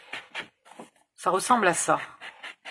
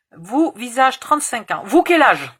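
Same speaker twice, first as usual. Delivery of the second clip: put-on Romanian accent; 6 semitones higher, 9 dB louder than usual. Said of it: "elle parle avec un accent roumain".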